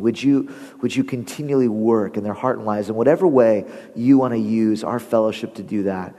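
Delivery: low, measured public prayer. Real, not acted. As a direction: pray earnestly for the congregation. Leads the congregation in prayer.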